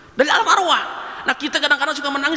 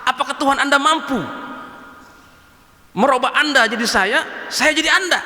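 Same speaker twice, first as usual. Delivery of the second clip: put-on drunkard's challenge. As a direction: push the drunk's dare harder. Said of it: "pemabuknya ngomong sama begini".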